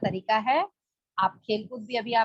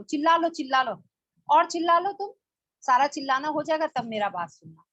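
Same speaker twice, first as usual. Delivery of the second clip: put-on parent to a child; 4 semitones higher than usual. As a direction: let the kid shout it out, then take charge. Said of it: "हम लोग बोलते हैं ना बच्चे को".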